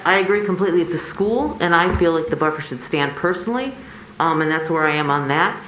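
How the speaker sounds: muffled behind a mask; through a face mask. Real, not acted. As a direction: speak through a cloth mask. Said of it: "it was through a mask".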